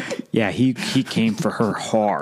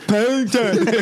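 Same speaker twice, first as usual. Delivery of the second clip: squeaky high Paddington voice; high cartoon bear; 9 semitones higher, slower than usual. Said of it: "and you go".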